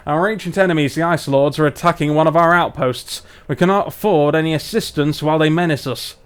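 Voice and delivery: lightly done northern English dwarf; solemn lines in a wobbly Barnsley accent. Acted. Dwarf explains the threat to the outpost, light Barnsley accent. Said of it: "let's do our dwarves from Barnsley".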